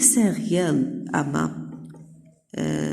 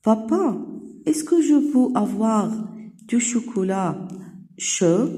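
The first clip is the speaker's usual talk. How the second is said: Clara asking dad; 4 semitones higher, slower than usual. Acted. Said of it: "تسأل كلارا".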